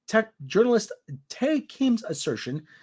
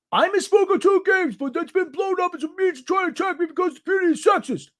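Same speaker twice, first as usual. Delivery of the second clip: mocking Black's voice; 10 semitones higher than usual. Reads Black's quote mockingly.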